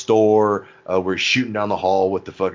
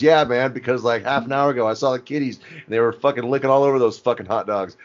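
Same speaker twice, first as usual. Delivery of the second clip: raised, higher mock Bubbles; a loud put-on Bubbles, ranting; 5 semitones higher than usual. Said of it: "Bubbles hella loud goes".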